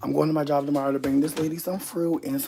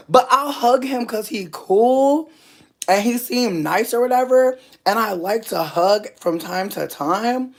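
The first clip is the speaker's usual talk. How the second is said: laughing; 7 semitones higher, 5 dB louder than usual. Real, not acted. Laughing, high and slow.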